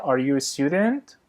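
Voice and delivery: slow, clear teacher read with the voice rising at the end of "student"; rising question tune. Shown as a demonstration. Teacher demonstrating a yes-no question, rising at the end. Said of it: "تون صدا در انتهای جمله میره بالا".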